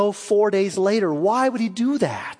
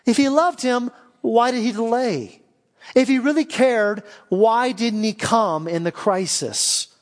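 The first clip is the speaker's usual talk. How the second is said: confused questioning; 3 semitones higher than usual. Acted. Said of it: "But I'm confused".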